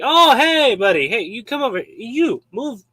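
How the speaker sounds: high, loud brush-off that trails away; a king waving off a guest, loud then fading; dismissive king. Retold or imitated. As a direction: shoo someone aside like a bored king. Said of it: "the king's like".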